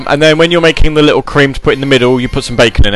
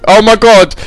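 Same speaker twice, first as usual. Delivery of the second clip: higher, louder Essex "Oh my god"; mock Essex gush; 9 semitones higher, 5 dB louder than usual. Imitating Essex locals gushing in a mock Essex accent. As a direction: gush like a Towie girl, lightly. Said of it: "when everyone's like".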